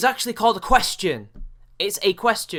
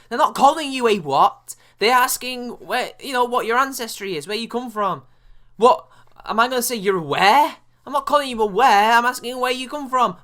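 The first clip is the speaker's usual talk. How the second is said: louder and higher, incredulous scolding; exasperated rant; 4 semitones higher, 5 dB louder than usual. Real, not acted. Scolding the woman in the clip, exasperated and louder. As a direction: lose patience with someone being dense.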